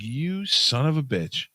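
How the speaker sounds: high, drawn-out mock fury; retold outrage. Driver realizing he was conned, acted outrage. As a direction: act out a slow, high-pitched curse. Retold reaction to being duped.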